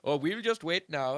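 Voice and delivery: a bad, high Swedish accent. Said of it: "what is it, Swedish accent ever".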